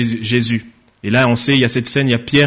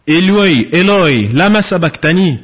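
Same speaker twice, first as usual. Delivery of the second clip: loud cry; 4 semitones higher, 3 dB louder than usual. Acted. Dying man crying out to his God, loud voice. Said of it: "Jésus s'écria d'une voix forte".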